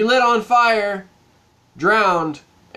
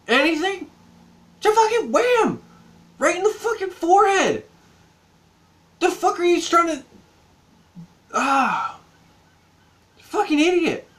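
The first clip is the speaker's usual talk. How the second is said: high, exasperated rant; exasperated yelling; 10 semitones higher than usual. Real, not acted. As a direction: shout at the screen in disbelief. Ranting at the movie character.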